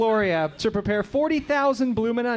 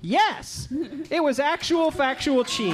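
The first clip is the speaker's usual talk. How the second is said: excited; 7 semitones higher than usual. Real, not acted. Host confirms correct answer.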